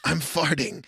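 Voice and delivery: slow sinister clown, rising at the end; Pennywise. Pretend. Pennywise answering Georgie, slow and sinister. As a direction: menace the kid with a slow creepy promise. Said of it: "I'm Pennywise".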